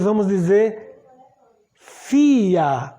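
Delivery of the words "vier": fia with an F start and open A end; German pronunciation. Shown as a demonstration. Teacher saying German four, German pronunciation. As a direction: say fia as "FEE-ah". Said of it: "o V tem som de F".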